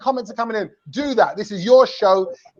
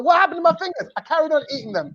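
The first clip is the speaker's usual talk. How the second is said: higher-pitched comic dismay, easing off; mock bewilderment; 5 semitones higher, faster than usual. Host playing coach who ate his fingers, comically bewildered. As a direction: play the baffled nail-biter. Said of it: "He's like, he's just there".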